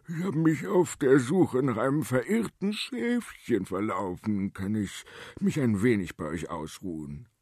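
put-on mildly pleading old shepherd; a touch of whining to gain pity; pitiful voice. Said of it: "bat er mit kläglicher Stimme". (leicht klägliche Stimme)

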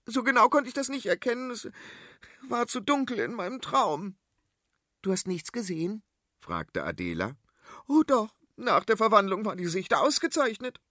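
high, know-it-all queen lecturing; high-pitched royal scolding; bossy queen voice. Acted. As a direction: talk down to them like an impatient queen. Queen recounts her dream.

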